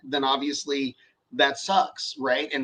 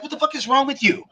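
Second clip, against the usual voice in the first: imitating a boss blowing his top, pitch jumps high at the start; a hammed-up angry rant at a worker; mock furious rant; 4 semitones higher than usual. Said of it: "instead, you're like".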